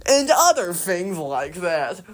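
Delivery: put-on slow dramatic kids' book promo; drawn-out teen novel blurb voice; book trailer narrator. Shown as a demonstration. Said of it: "something you find at a Scholastic book fair".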